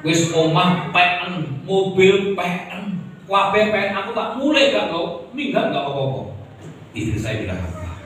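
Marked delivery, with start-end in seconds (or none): 0.1-6.4 defiant threat. Retold or imitated. Husband threatens to leave wife.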